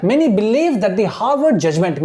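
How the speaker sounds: very slow, word by word reading; slow classroom dictation of English text. Shown as a demonstration. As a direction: read it out slowly so students follow. Teacher dictating newspaper line slowly.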